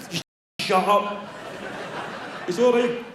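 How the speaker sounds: put-on a frightened kid snapping back; scared kid.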